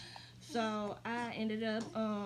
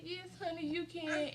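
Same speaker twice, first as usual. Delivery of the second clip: gentle nurse; 7 semitones higher than usual. Retold or imitated. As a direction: lightly act a nurse giving permission. Nurse gives permission to cry.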